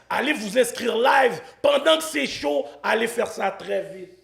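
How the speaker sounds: punchy call to action, dropping for the disclaimer, then rousing finish; sponsor ad read. Acted. Host urging viewers to sign up live, ad-read style. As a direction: urge listeners on, then caution them.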